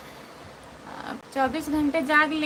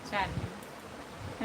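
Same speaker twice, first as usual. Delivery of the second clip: "चार minute" echoed softly and lower, drawn out; slow soft repeat; 7 semitones lower, 12 dB quieter, much slower than usual. Real, not acted. To viewers as the live nears its end, a slow soft echo. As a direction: let चार minute sink away slowly and lower. Counting down minutes left on live.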